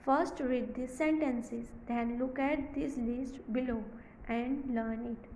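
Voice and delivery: very slow, word by word reading; slow classroom dictation. Shown as a demonstration. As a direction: read it out slowly for the class. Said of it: "teacher rereads instructions".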